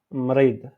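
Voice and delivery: Mrid with a strongly rolled R. Shown as a demonstration. Teacher showing students the word, R rolled. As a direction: roll the R hard in Mrid. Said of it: "toujours franchement roulé".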